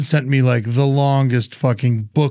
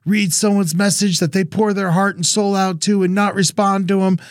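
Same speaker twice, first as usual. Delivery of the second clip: mock indignant scolding, pitched up; retold angry message; 5 semitones higher than usual. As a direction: imitate an aggrieved sender in a higher voice. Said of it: "the angriest message from her".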